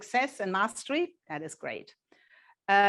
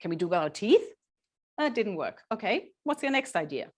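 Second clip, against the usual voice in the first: bright, higher, upbeat encouragement; encouraging parent; 3 semitones higher than usual. Shown as a demonstration. Parent to child trying ideas, higher and upbeat. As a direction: cheer the child's silly idea along. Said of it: "You go".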